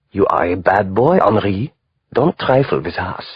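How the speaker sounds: a light, hammed-up German accent; mock German accent. Lightly done mock German accent scolding a bad boy. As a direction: Henri mimicking his German boss in a mock German accent. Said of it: "He put on a mock German accent".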